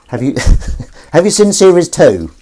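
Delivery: high, sing-song voice for talking to the cat. Real, not acted. Speaking to the cat in her cat voice. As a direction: coo it like you're chatting to your pet. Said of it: "Don't know why I'm speaking in my cat voice".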